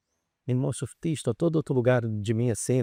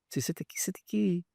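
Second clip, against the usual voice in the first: whispered, high and insistent; breathy urgent whisper to the listener; 4 semitones higher, 5 dB quieter than usual. Acted. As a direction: whisper it like a pressing secret. Emphatic urging about reading.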